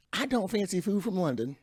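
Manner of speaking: mock British whisper. Mocking British phrasing.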